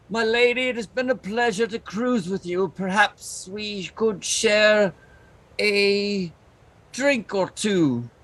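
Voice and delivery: a touch of a suave charmer, slowed down; smooth flirt. Acted. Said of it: "take her hand and be like".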